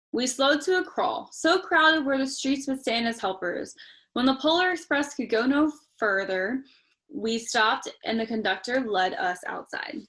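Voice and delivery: steady storybook reading voice; story narration. A narrator's reading. Parent reading Polar Express to child, storytelling. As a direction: read it like a bedtime story.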